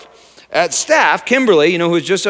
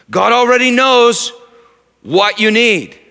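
challenging rhetorical build; 4 semitones higher, 3 dB louder than usual. Acted. Raising the objection.

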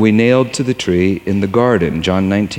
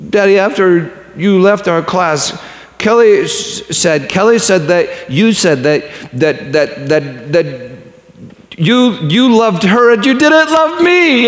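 put-on high, childlike voice, rising and upset; voicing his young daughter; 9 semitones higher, 4 dB louder than usual. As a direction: lift the voice like a hurt little girl telling her father. Child's words voiced in story.

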